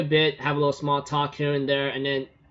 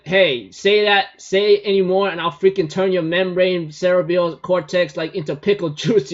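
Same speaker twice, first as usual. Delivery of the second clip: angry threat; 4 semitones higher, 6 dB louder than usual. Retold or imitated. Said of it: "she goes like".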